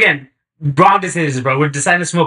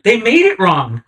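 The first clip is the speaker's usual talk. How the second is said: stoned complaint; 7 semitones higher, 4 dB louder than usual. Retold or imitated. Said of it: "He's like".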